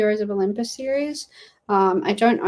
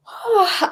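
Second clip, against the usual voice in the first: yawn sound; 10 semitones higher, 4 dB louder than usual. Real, not acted. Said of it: "why I'm yawning".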